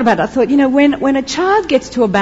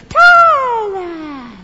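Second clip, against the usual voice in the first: starts high, sags and fades away; deflating ta-da; 10 semitones higher than usual. Acted. Your ta-da after the family doesn't notice, deflated. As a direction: let the triumph droop as you stretch it. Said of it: "what happens to your ta-da".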